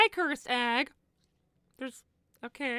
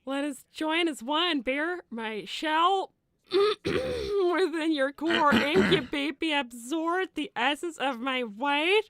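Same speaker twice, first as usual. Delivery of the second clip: a mildly sinister egg whispering to its chosen one; creepy egg voice; slower than usual. Acted. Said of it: "reading that out loud never happened".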